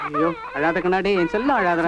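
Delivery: lightly cooing to stop the crying; soothing a baby. Acted. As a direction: hush the baby gently.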